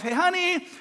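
high, gently sing-song voice to a spouse; mock-calm high voice for bad news; gentle. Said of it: "gently told my wife".

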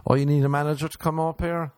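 sarcastic mock. Mocking manager arrival.

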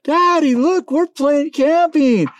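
put-on very high, slow, sing-song little-kid voice; kids' voice. Father imitating his kids showing him their tents. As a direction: call it out like an excited toddler. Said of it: "the kids are like".

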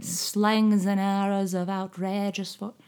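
attempting old Southern British accent; Southern British Shakespeare. Shown as a demonstration. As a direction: recite like Shakespeare's own actors. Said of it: "Southern British".

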